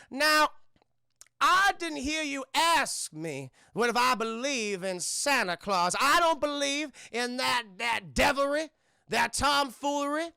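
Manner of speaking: antebellum lady going off. Acted. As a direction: scold like an outraged old-South matron, hammed up. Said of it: "she's going off".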